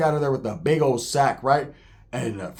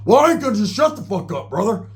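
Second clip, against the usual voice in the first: imitating an indignant comeback, pitched up; defiant retort; 5 semitones higher than usual. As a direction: protest back, higher and indignant. Roach defying the dealer.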